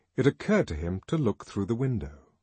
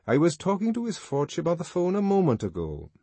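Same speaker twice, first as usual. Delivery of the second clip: bored tone; 9 semitones higher than usual. A narrator's reading. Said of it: "His bored tone".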